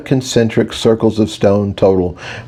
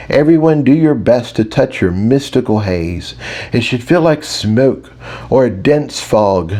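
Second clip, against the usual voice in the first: patient teacher; 2 semitones higher than usual. Acted. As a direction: coax the class along, hiding some frustration. Mage teacher addresses centaur class.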